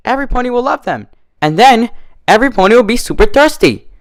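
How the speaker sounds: high, fast, bouncy pony chatter; excited, high-pitched party pony gushing over cupcakes; bubbly Pinkie Pie voice. Acted. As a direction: sell the cupcakes like it's the best idea ever.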